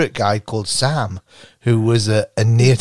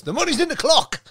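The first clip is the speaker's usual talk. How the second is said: creepy ghostly crone whisper-tone; old woman's ghost voice. Retold or imitated. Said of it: "an old woman's voice goes".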